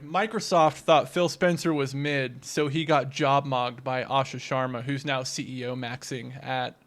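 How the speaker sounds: deadpan zoomer slang read; Gen Z slang. Pretend. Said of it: "read this in Gen Z slang".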